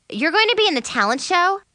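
high, disbelieving question; shocked. A narrator's reading. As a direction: ask in hurt disbelief. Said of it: "obviously shocked".

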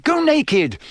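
high, loud exasperated outburst; exasperated shout. A narrator's reading. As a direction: throw it at him, fed up. Exasperated mother yells at son.

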